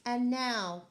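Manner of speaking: loud excited call; Max crying out. Acted. Max calling the wild things to begin, loud and eager. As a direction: announce it like a young king. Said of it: "cried Max".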